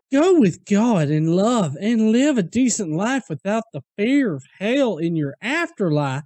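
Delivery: lightly put-on pious commenter voice; a hint of sanctimonious commenter; mock preachy voice. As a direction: read it like a smug preacher, half mocking. Reading a preachy comment aloud.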